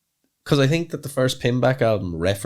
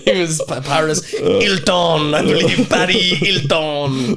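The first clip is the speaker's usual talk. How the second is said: joking; 6 semitones higher, 4 dB louder than usual. Pretend. Joking about thinker called Paris.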